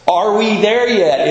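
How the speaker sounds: mild mock whiny kid; playfully imitating an impatient child; mock kid yell. Kid nagging dad on a long drive, mild mock yell. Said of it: "is what I yelled a lot as a kid".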